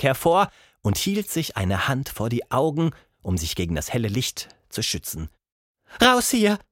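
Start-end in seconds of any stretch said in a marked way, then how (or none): 6.0-6.6 higher, louder angry roar; booming thunder voice. Acted. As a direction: thunder it out at the intruders. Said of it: "donnerte sie".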